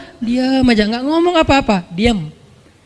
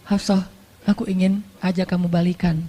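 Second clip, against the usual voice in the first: softer and lower, gentle; tender invitation; 3 semitones lower, 6 dB quieter than usual. Acted. Husband softly asks his wife to reconcile, tender and low. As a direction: ask her back, lovingly.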